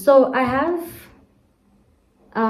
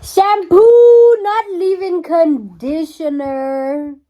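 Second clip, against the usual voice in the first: loud, exasperated rant; fed-up outburst at the wrong bottle; irritated; 3 semitones higher, 9 dB louder, slower than usual. Real, not acted. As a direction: vent the irritation full voice. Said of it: "I'm so irritated".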